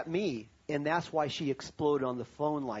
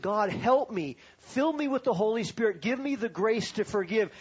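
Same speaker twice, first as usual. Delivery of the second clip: a higher, louder plea to God; pleading prayer; 5 semitones higher, 3 dB louder than usual. Retold or imitated. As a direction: cry out to God for help, half reliving it. Desperate prayer to God retold.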